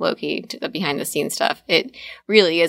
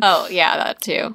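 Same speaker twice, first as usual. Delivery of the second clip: speaking through burps; burpy after pizza; talking while burping. Real, not acted. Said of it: "I keep burping and I ate a truffle pizza".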